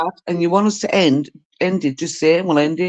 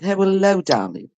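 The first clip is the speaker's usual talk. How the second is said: mimicking mother-in-law; 3 semitones higher than usual. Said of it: "That's how she would speak".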